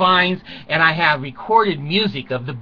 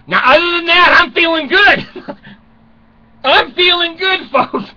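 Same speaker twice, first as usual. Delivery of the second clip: upbeat boast; 10 semitones higher, 5 dB louder than usual. Real, not acted. Cheerful boast after listing illnesses.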